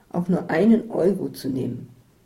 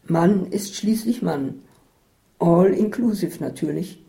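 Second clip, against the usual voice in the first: cheerful; 4 dB louder than usual. Acted. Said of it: "sagte Katharina fröhlich".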